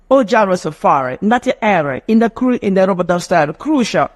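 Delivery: lightly put-on Jamaican Patois, a little lively. Shown as a demonstration. Teacher demonstrating Jamaican English to students, light Patois. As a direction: toss out reggae-style Patois phrases. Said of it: "that is Patois".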